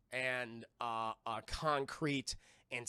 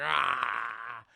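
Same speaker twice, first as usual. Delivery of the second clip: louder, lower growling yell; villain's imitated roar; 6 semitones lower, 5 dB louder than usual. Zod howling after losing everything, villain roar. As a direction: let out a long mock roar. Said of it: "Zod's just like".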